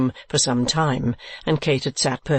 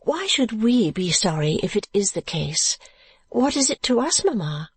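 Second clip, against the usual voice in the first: higher-pitched, mildly gentle questioning; 7 semitones higher than usual. A narrator's reading. Daughter reasoning with her mother, gently. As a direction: ask it gently, without pressing. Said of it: "she added in a more gentle tone".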